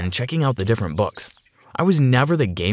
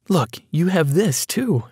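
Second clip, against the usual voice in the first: higher, slow smiling voice; pleased mother, pitched up and drawn out; 7 semitones higher, slower than usual. A narrator's reading. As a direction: show it off with an audible smile. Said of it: "Emily smiled".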